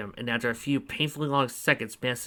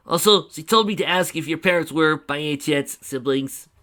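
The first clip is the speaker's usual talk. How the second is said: gruff character voice; 3 semitones higher, 5 dB louder than usual. Acted. Fafnir relays an insult.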